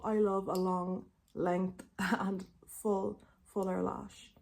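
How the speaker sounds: tongue piercing clicking; words clicking round a tongue stud. Real, not acted. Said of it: "you can hear my tongue piercing click".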